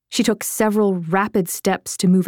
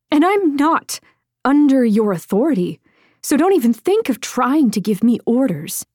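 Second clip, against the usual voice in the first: higher, firm, indignant pushback; angry retort; 5 semitones higher than usual. Acted. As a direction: put him in his place. Heated quarrel with Killian.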